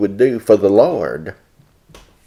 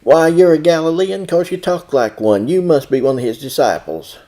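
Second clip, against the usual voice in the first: loud accusation; 7 semitones higher, 5 dB louder than usual. Acted. Bystanders accuse Peter loudly.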